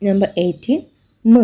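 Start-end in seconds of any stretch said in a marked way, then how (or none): 1.2-1.4 "m" hummed with lips closed; "m" as a bare mmm; isolated m sound. Shown as a demonstration. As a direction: hum "m" alone. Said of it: "Example, man".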